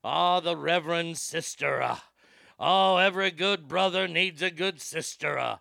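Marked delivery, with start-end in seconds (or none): 2.6-5.6 mock folksy preacher. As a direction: parody the president's homespun church talk, barely changed. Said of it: "When he tries to be all folksy".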